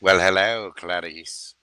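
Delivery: a light hint of a creepy, courteous villain; Hannibal Lecter. As Hannibal Lecter greeting Clarice, lightly voiced and creepy. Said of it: "It's Anthony Hopkins... Silence of the Lambs".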